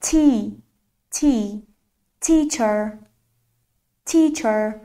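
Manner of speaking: تی and teacher with a drawn-out "ee"; long vowel. Shown as a demonstration. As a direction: stretch the "ee" in تی, then in teacher.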